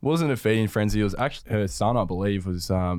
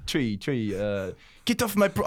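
put-on halting second stab at an Irish accent; botched Irish accent; 3 semitones higher, slower than usual. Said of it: "Have another go".

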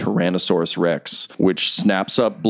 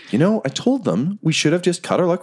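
higher, rambling goblin monologue; goblin's inner thought; 5 semitones higher than usual. Acted. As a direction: muse like a doomed goblin with regrets. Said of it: "In his head, he's just like".

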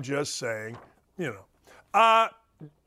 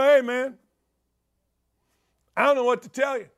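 shrugging reply; 4 semitones higher, 3 dB louder than usual. Retold or imitated. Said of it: "You sit there and you go".

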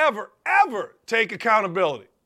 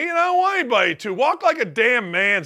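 ordinary talk, nothing marked

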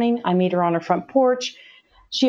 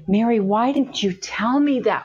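imploring, pitch lifting as it goes; retold pained reproach; 4 semitones higher than usual. Asking Mary why she hid her gay son, retold pleading reproach.

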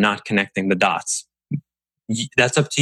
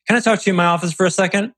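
ominous boss summons; 9 semitones higher, much faster than usual. Shown as a demonstration. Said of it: "Walk up to someone and say".

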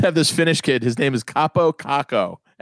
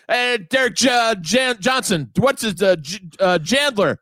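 high, slow groping for a name; fumbling dad; 7 semitones higher than usual. Retold or imitated. Son imitating dad mangling Derek Jeter's name, high. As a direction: search for a player's name and miss. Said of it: "He'd go".

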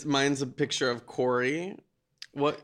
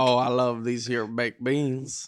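slow western drawl; cowboy twang; 3 semitones lower, slower than usual. Pretend. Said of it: "Give me a sentence".

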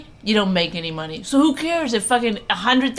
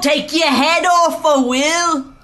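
high, loud, drawn-out witch screech; hammed-up fairy-tale witch threatening a child; evil witch; 7 semitones higher, 7 dB louder, slower than usual. Shown as a demonstration. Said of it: "I could be the evil witch".

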